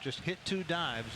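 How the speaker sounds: ordinary talk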